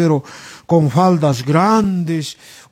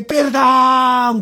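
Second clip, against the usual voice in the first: higher, drawn-out mock wail; imitated cry for pardon; 4 semitones higher than usual. People in hell beg forgiveness, with a mild mock cry. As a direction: cry out as the damned, half-strength.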